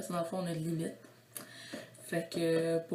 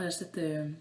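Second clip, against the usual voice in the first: ordinary talk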